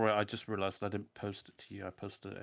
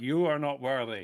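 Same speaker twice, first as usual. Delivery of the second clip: high, loud battle shout; 5 semitones higher, 8 dB louder than usual. Narrating a game as the weapon is destroyed, the speaker voices Laftel, shouting. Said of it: "Laftel shouts out".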